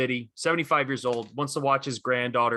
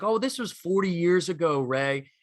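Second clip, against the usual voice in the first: a light mock of a dismissive younger pundit, higher; the New England guy; 5 semitones higher than usual. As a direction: brush it off like the young guest. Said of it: "the guy's like".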